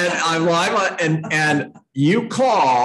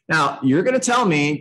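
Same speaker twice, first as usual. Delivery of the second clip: ordinary talk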